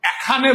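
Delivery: "এখানে" opening on æ, æ-kha-ne; wrong pronunciation. Shown as a demonstration. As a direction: start "এখানে" with an open æ as nobody says it. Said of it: "এটা কিন্তু এর মতো করি নাই".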